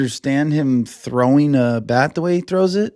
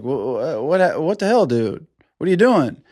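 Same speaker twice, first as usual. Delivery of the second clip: stammering disbelief; 2 semitones higher than usual. Retold or imitated. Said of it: "Estes is like".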